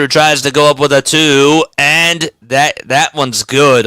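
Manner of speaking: live game call; play-by-play. Acted. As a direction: call the action courtside.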